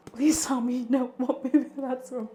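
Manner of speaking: retainer in mouth; lisping slightly through a retainer; wearing a retainer. Real, not acted. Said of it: "with my retainers in".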